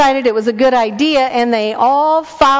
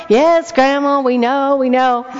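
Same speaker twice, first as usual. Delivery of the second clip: put-on impatient kids; 4 semitones higher than usual. Kids answering grandma.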